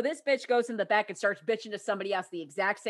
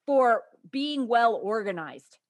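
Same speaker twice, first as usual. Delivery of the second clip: sarcastic congratulations; 4 semitones higher, 4 dB louder than usual. Retold or imitated. Mocking the show caller.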